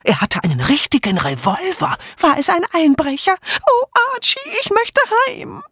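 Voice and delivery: very high, frightened cries; confused panicked calls. A narrator's reading. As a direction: call out in a rising panic, wailing at the end. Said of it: "alle riefen wirr durcheinander". (panisch durcheinander gerufen)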